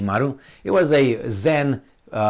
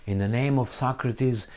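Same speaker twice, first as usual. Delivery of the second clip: soft, even, droning philosophy talk; mock intellectual lecturing; 5 dB quieter than usual. Showing how not to talk to them, mock intellectual droning. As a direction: imitate a mild scholar rambling on. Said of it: "You don't talk".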